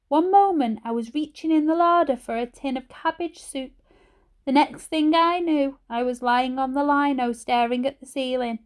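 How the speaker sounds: a frail grandmother telling how she fell; croaky old granny. A narrator's reading. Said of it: "Her voice was croaky and her speech a little slurred".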